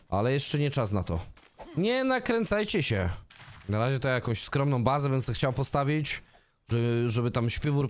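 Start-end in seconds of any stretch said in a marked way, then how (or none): 1.8-3.1 high, slow hushing; mock-calming chat. Real, not acted. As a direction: settle the viewers down, drawn out. (wysoko i powoli uspokaja widzów)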